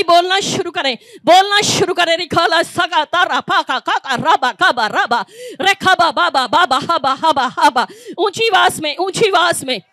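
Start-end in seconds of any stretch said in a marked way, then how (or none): 2.2-7.9 babbled syllables broken by laughs; tongues with laughter. Real, not acted. Preacher showing the congregation how to pray in tongues, laughing. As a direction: laugh through the ecstatic babble.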